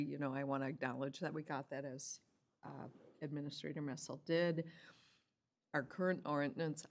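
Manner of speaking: talking through a mouthful of cookie; words round a bite of cookie; mouth full. Real, not acted. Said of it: "I have a cookie in my mouth".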